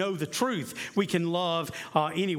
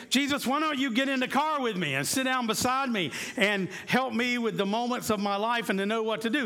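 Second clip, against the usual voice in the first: higher, earnest plea; higher mock-earnest plea; pleading prayer; 6 semitones higher than usual. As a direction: ask Jesus to ride along, pitched up. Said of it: "We could say".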